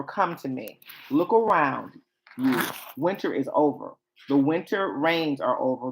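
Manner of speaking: expressive verse reading with punched phrases and long pauses; dramatic poetry reading. Acted. Bride watches her lover arrive and call her, expressive poetic reading. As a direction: recite it with lightly acted wonder.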